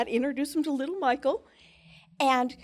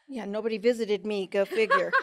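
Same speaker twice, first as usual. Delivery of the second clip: wry chuckle through the words; laughing; 3 semitones lower than usual. Real, not acted. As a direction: laugh at yourself as you say it. Jokes at own expense.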